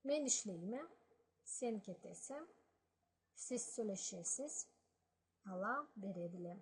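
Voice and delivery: each Balkar phrase said clearly, with a pause after each; Balkar example phrases. Shown as a demonstration. Teacher reads the examples to learners, in careful Balkar. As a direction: model each example sentence. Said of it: "examples for that".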